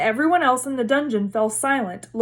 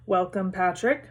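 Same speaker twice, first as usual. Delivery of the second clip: stiff; 2 semitones lower, 3 dB quieter than usual. Acted. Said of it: "said Nick stiffly".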